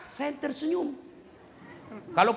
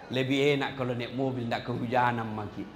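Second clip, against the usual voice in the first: mock complaining voice; 13 semitones lower, 7 dB quieter than usual. Quoting greedy person's complaint.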